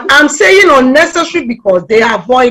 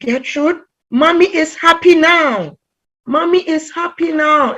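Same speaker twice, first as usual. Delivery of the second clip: high-pitched imitation of a child; child's report; 6 semitones higher than usual. A toddler tells the teacher about Mommy, lightly voiced child. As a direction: retell it as a small child sharing news, higher. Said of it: "one child was just telling me".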